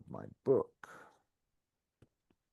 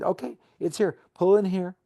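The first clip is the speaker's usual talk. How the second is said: pleading; 6 semitones higher than usual. Retold or imitated. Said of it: "we plead".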